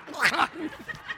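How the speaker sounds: high, blubbering wail; mock bawling. Dad asking others to pray, mock bawling. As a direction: unintelligible comic sobbing. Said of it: "I'm bawling".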